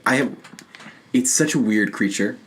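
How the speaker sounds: ordinary delivery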